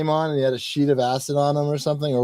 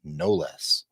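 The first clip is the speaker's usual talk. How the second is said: echoing proclamation; 7 semitones lower, 6 dB quieter, slower than usual. Retold or imitated. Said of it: "making a sound that echoes".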